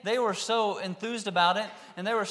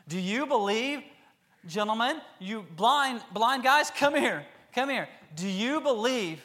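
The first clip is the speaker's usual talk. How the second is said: higher, louder call to the blind men; 5 semitones higher, 5 dB louder than usual. Acted. Jesus calling the blind men over, loud. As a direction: beckon them over with a raised voice.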